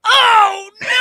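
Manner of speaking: high, loud mock wail of dismay; girl's wail. Girl seeing her ruined doll, high loud wail. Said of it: "I hear her go".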